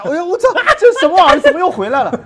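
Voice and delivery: high, loud startled outcry; shocked exclamation. Retold or imitated. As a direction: yelp in disbelief, quickly. People shocked by returning swan.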